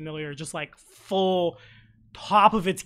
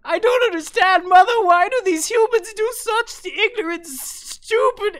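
very high, loud panicked creature voice; high, loud, panicked familiar; distraught cub; 11 dB louder than usual. Acted. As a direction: wail it like a frantic little beast. Cub sobbing complaint.

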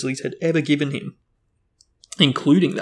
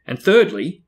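menacing; 5 semitones higher, 8 dB louder than usual. A narrator's reading. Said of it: "his mean little eyes now slits".

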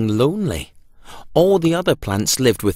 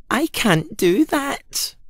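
higher, slow mournful pumpkin; very sad; 14 semitones higher, slower than usual. A narrator's reading. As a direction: drag it out, heartbroken. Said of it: "said Pumpkin very sadly".

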